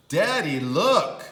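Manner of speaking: put-on eager kid calling dad; bouncy little girl; excited child. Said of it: "and said".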